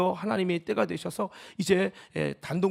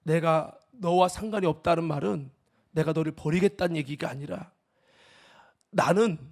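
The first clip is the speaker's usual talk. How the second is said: God's voice; 4 dB louder than usual. Retold or imitated. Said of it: "주님이 뭐라고 하느냐면".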